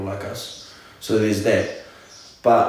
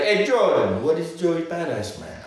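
higher-pitched, badly faked Brazilian accent; 5 semitones higher than usual. Brazilian friend asking about a nickname, bad Brazilian accent. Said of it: "Oh, that's a terrible accent".

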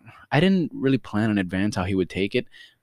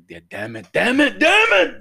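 grandfather's temper boiling over; imitated exasperation; 6 dB louder than usual. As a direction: build from a grumble to a mock furious shout. Imitates grandfather losing his temper.

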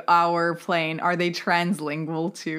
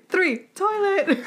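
laughing countdown; 11 semitones higher, slower than usual. Pretend. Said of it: "Satan and them are just like".

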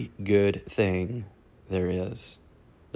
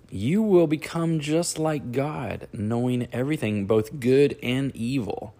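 high, tempting snake voice; a lightly played sly serpent; hissing serpent dragon; 5 semitones higher than usual.

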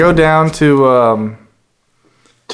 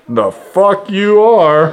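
disbelief; 4 semitones higher, much slower than usual. Retold or imitated. Inner thought, slow disbelief.

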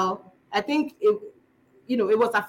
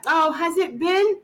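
higher-pitched, slow questioning reply; pretend second person; 7 semitones higher, slower than usual. Pretending to be two people on the road, pretend second person. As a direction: answer as the other person in a made-up chat. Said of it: "I'm pretending to be two people".

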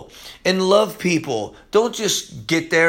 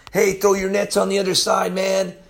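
mild mock yell; 4 semitones higher than usual. Jesus to disciples fishing on the lake, mild retold yell. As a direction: imitate calling across water without really shouting. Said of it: "Jesus is gonna yell".

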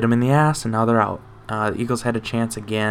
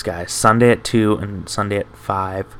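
talking through a yawn; words stretched by a yawn. Real, not acted. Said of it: "I keep yawning".

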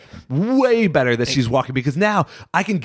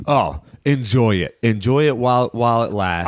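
mock parent advice; 2 semitones lower than usual. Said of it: "every other parent who's said to me".

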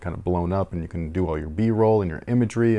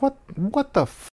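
panicked disbelief. Retold or imitated. Stunned meeting his idol.

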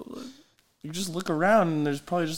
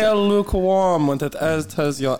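seductive, high and breathy-toned; sultry narrator; 8 semitones higher, 4 dB louder than usual. Acted. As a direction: coax like a velvet salesman. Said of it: "In a seductive voice like that".

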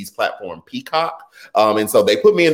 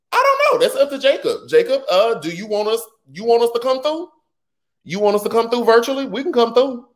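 high playful voice; 10 semitones higher than usual. Pretend. High playful voice addressing Jacob.

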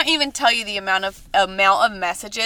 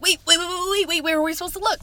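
retold panic; 7 semitones higher, faster than usual. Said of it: "And I was like".

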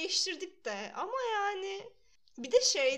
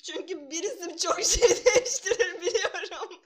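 nervous laugh; 3 semitones higher, 5 dB louder than usual. Real, not acted. Laughing mid-sentence.

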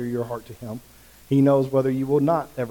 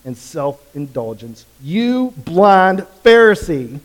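Jesus rebuking; 7 dB louder than usual. Retold or imitated. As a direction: rebuke them for their hypocrisy. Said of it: "He says".

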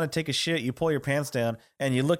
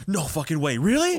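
a coworker who can't believe his luck; excited disbelief. Retold or imitated. Coworker hearing there's a midget, excited disbelief. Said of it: "Dude got so excited".

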